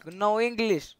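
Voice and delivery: loud broken English in a put-on Arabic accent; troll a stranger as a loud Arab gamer; fake Arabic accent. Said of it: "I'm Arabic". (ψεύτικη αραβική προφορά, δυνατά)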